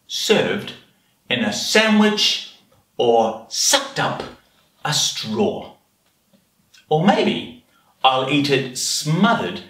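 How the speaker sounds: anteater relishing each word, with pauses; children's story narration. Acted. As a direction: read it to little ones, savouring the menu. Reads picture story as the anteater.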